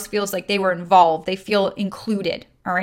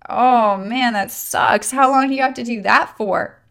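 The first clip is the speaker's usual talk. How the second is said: sympathetic disgust; 2 semitones higher than usual. Shown as a demonstration. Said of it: "feel sorry kind of connotation tone of that".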